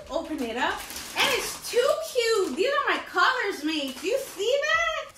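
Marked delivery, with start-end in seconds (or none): 1.2-5.2 high, loud squeals of delight over a cute gift; squealing about a favorite color; gushing excitement. Real, not acted. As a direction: gush like you love every detail. Gushing over the diaper bag.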